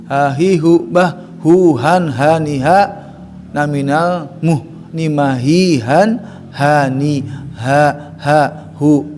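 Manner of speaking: chanted ha hi hu syllables; letter drill. Shown as a demonstration. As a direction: drill "ha, hi, hu" from the throat.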